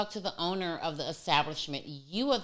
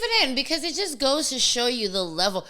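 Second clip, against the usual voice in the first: laughing; 8 semitones higher, 11 dB louder than usual. Real, not acted. Laughing, amused by the yawn.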